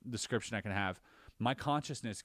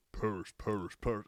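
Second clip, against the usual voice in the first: devil voice. Retold or imitated. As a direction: chant Paris like a demon, a hint of menace. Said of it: "my voice was like a devil".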